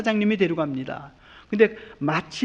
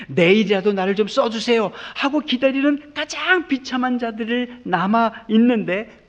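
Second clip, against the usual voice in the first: pleading laborer; 5 semitones higher, 4 dB louder than usual. Acted. Voicing the desperate day laborers.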